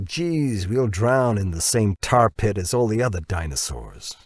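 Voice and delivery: lightly voiced grumbling American boss; a hint of a boss making excuses; Dirk's voice. Dirk raises more objections.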